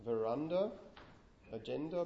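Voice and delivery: Veranda as "ve-RAN-da", agenda as "a-GEN-da"; Veranda, agenda, middle syllables stressed; stress on second syllable. Shown as a demonstration. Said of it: "not stressed on the first one".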